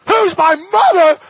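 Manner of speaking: high, loud and slow, stretching "Who's my mother?"; preacher thundering the question at the congregation; ringing shout. Acted. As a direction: proclaim it to the whole crowd. Preacher repeats with force.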